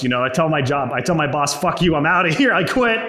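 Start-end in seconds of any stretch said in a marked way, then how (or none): 1.6-3.0 acted-out defiant outburst, rising on the end; defiant quitting. Employee telling his boss he quits, defiant. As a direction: throw the retold resignation out defiantly.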